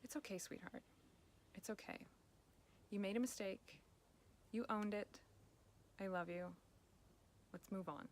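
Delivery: gentle self-comfort. Shown as a demonstration. Coach demonstrates kind self-talk to listeners: softly soothing. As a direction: soothe yourself after a mistake. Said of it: "I want you to stop and go".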